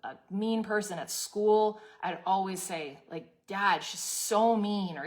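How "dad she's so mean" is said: put-on slow, louder childish whine; whiny kid. Little girl complaining to her dad in the car, whining. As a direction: draw it out like a little kid tattling.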